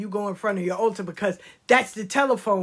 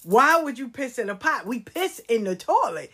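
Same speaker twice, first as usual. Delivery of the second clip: mildly indignant child imitation; horrified child; 3 semitones higher than usual. Granddaughter correcting grandmother's saying, horrified child. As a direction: scold grandma as an appalled little girl. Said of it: "She thought that was so horrible".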